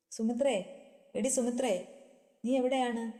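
husband calling his wife from afar, drawn out. A narrator's reading. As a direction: stretch the name out as you call across the yard. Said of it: "Sekharan നീട്ടി വിളിക്കുന്നത്". (ഭാര്യയെ നീട്ടി വിളിക്കുന്നു)

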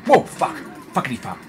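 sharp high cry of fright; startled yelp. Real, not acted. Gamer caught off guard by a monster, startled yelp. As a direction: yelp as if something leapt out. Jump scare while playing.

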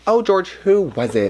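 high-pitched, drawn-out mock question; imagined nosy viewer. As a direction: imitate a viewer asking coyly. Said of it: "you're probably gonna be like".

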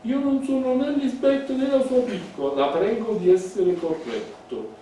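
high, loud haughty correction; indignant. Acted. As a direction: put him firmly in his place. Elisabetta rejects "piccola Lisbeth. (correzione altezzosa e alta)

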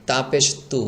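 তা and তু said light, tongue relaxed; natural thin তা. Shown as a demonstration. Teacher shows the normal letter, তু light and thin. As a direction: keep the t of তু thin. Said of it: "এটা স্বাভাবিক".

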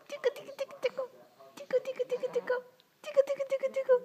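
high sing-song tickle chant; giggly tickle attack. Real, not acted. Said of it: "giggly tickle attack".

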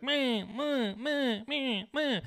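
mocking nagging woman. Mocking a snippy girlfriend who's always on him, whiny meh. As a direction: parody a nagging partner's constant complaints. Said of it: "she's always like".

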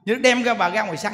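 usual speaking voice

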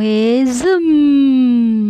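whoosh sound. Acted. Swooping down the slide.

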